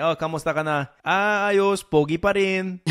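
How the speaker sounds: lightly acted jokey greeting, lifted on the comeback; mock-hearty Filipino small talk; Filipino-style joking banter. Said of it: "parang Filipino style talaga yun".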